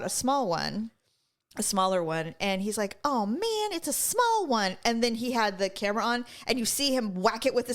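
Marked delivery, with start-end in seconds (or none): 3.0-4.8 higher, slow mock letdown; mock disappointment. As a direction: draw it out like a let-down trapper. Acting out the trapper's disappointment.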